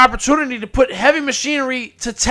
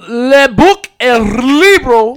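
announcer intro; 3 dB louder, slower than usual. Acted. Announcing the show segment.

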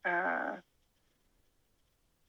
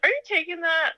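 high mock husband; 11 semitones higher, 3 dB louder than usual. Husband voiced, quoted question.

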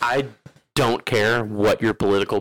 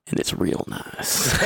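slow drawl; 3 dB quieter, slower than usual. Retold or imitated. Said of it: "He's like".

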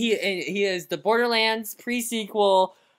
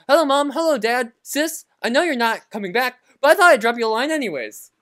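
lightly voiced cheery orphan; a hint of a chipper Cockney orphan; quoting orphan character; 3 semitones higher than usual. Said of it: "one of his quote, echo quotes is".

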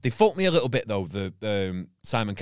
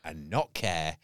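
mock fuming. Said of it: "She goes".

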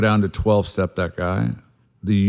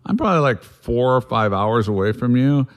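pitched up high, mock exasperation; exasperated; 4 semitones higher than usual. Telling the drunk friend how far away he is, exasperated. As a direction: stress how far away you are. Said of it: "I'm like".

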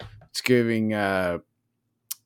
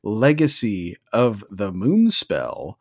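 matter of fact; 2 semitones lower, slower than usual. Acted. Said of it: "it's just so matter of fact".

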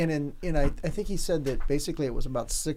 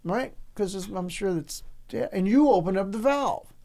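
bargaining louder; 6 semitones higher, 5 dB louder than usual. Retold or imitated. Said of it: "I says".

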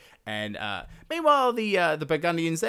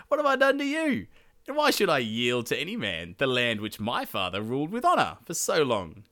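indignant king; 2 semitones higher, 4 dB louder than usual. Acted. Gunther refuses to yield his father's land, mock indignation. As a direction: protest as an affronted king, settling into formal speech.

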